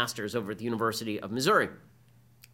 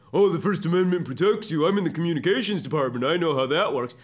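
mocking sing-song, louder; facetious voice; 3 semitones higher, 5 dB louder than usual. Professor mocking the student reporter, facetious voice. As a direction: throw it back at him sarcastically. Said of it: "like the facetious voice".

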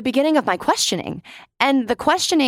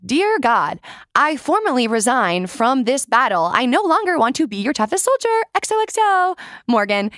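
mock resignation letter; 3 semitones higher than usual. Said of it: "And people were like".

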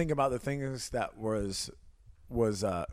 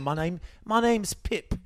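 mock Pip voice; 5 semitones higher than usual. Teasing the co-host about his reading, mock Pip voice. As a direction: recite it like a character introducing himself. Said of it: "you just really read it that".

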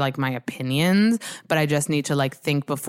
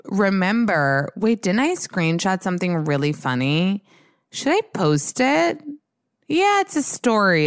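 high-pitched retold self-questioning; mock inner debate; 5 semitones higher than usual. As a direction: talk yourself into it in a high voice. Acts out talking herself into posting.

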